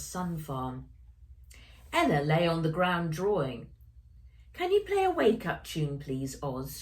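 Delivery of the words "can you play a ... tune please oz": sleepy yawning request. Acted. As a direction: say it through a yawn. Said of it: "she said with a yawn".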